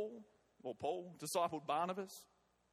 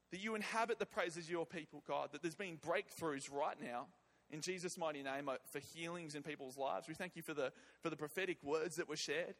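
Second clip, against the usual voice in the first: prayer. Acted. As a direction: pray over the congregation gently. Leads a congregation in prayer.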